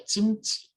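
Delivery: "jimchi" starting with a j sound instead of k; Busan-style "jimchi", g softened to j; Busan pronunciation. Shown as a demonstration. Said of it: "it's common to just pronounce ju".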